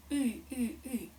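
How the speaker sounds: Ü said with the tongue in the middle of the mouth; demo ü sound. Shown as a demonstration. Teacher showing students the central Ü vowel. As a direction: hold "ü" in the centre, lips relaxed. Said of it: "central position of your mouth".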